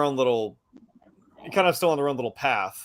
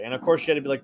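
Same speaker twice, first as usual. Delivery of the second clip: ordinary talk, nothing marked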